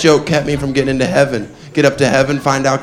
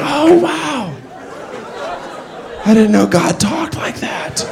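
mock surprise; 9 semitones higher, slower than usual. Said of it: "He'd be like".

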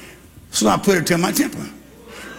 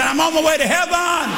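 high, shouted praise line; call to heaven; 9 semitones higher than usual. Shown as a demonstration. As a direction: shout it out to the church. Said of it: "Raise both your hands and say".

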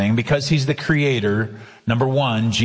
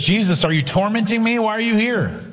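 mild mock yell; 7 semitones higher than usual. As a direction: imitate a possessed man's yell with raised pitch, holding back the volume. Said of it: "the man is yelling at Jesus".

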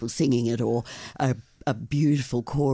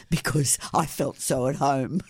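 laughing. Real, not acted. Guest jokes about Moroccan roots.

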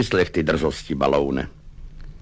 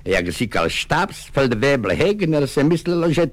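confidential wink; 4 semitones higher than usual. Acted. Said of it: "důvěrně mrkaje".

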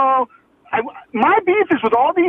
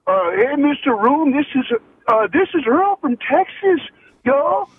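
Texas accent. Shown as a demonstration. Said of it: "do it in my Texas accent".

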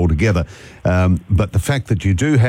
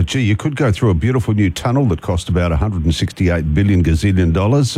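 sarcastic. Real, not acted. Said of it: "don't slip on my sarcasm".

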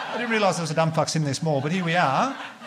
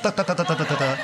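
rapid-fire gobbling noise; 2 semitones higher than usual. Retold or imitated. Imitates gulping sweets down rapidly.

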